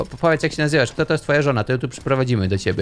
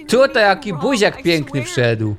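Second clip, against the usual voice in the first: ordinary delivery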